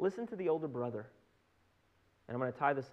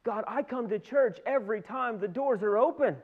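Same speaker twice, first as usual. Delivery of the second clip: higher-pitched acted grievance to God; indignant complaint; 4 semitones higher than usual. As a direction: protest like an entitled churchgoer.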